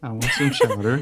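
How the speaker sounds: laughing mock Boston accent; a giggly Boston caricature; bad Boston accent. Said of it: "We have the worst Boston accents".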